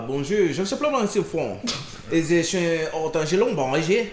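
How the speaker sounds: mock-fluent French patter; improvised French. Shown as a demonstration. Greeting his friends to show off, improvised French. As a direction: bluff your way through in French. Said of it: "in a little bit of French".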